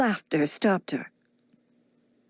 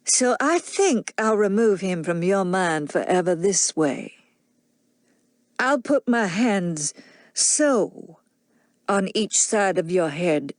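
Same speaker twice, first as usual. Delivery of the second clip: put-on drunken menacing man. Rhett's drunken threat.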